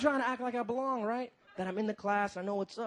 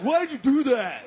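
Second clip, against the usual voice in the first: high, louder mock-exasperated cry; indignant outburst; 4 semitones higher, 5 dB louder than usual. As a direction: whine it loud, in outraged disbelief. Retold indignant complaint from a friend.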